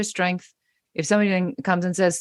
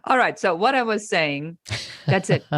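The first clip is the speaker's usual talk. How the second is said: dismissive laugh-off; 4 semitones higher than usual. Shown as a demonstration. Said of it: "You're laughing them out of the room and just dismissing it".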